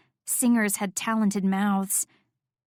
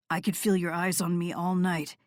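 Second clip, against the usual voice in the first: lightly voiced low man, murmuring; murmured male voice; 3 semitones lower than usual. A narrator's reading. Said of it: "he murmured into my mouth".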